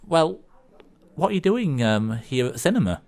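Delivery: high-pitched, mildly baffled query; lightly voiced man, incredulous; puzzled questioning. Man questioning a bear at the cinema, puzzled. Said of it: "I said".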